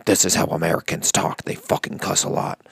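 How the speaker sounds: put-on overdone American accent, every syllable hard; a Brit faking an American accent, over-enunciating; hammed-up American accent; fake American accent. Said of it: "fake American accent".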